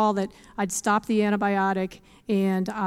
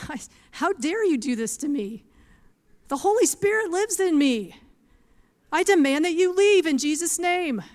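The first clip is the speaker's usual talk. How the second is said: retelling a rising, higher-pitched rebuke of the enemy; angry rebuke; 4 semitones higher than usual. Retold or imitated. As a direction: command the snake to leave, growing indignant. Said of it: "I decided to speak aloud 'cause I was mad".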